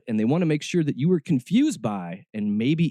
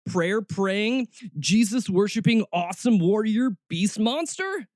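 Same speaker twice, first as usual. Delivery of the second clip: hyped-up reading; 6 semitones higher than usual. Acted. Reading hyped job ad aloud.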